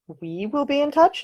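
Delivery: slow, rising, disbelieving repeat; baffled question, drawn out and high; incredulous echo. A narrator's reading. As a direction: throw her words back at her in disbelief. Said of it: "Nick echoed".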